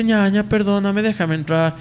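slow mock plea, drawn out; hermana suplicando. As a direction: beg your sister to let you in, imitated. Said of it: "le dice". (súplica imitada, lenta y alargada)

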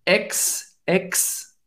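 "Ex" said alone, softly, as a syllable; syllable demonstration. Shown as a demonstration. Teacher starting the pronunciation drill, "Ex" softly isolated. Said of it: "Vamos lá pra pronúncia".

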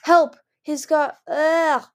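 high cry for help; panicked shout. Acted.

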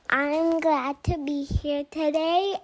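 chewing gum while talking; mouth full. Real, not acted. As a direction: speak round the gum in the mouth. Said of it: "sorry if you hear me chewing".

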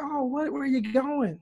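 hammed-up puzzlement at someone leaving; mock surprised. Mimicking clingy English acquaintance.

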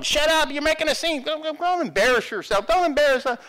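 high, loud hushing; shouted scolding. Acted. Crowd silencing the blind beggar, shouting. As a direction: shout him down in embarrassment. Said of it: "people that were shouting".

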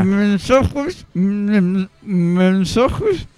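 slow, muffled through shut lips; mouth closed. Real, not acted. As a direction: force words past closed lips. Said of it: "Le cuesta un montón". (con la boca cerrada)

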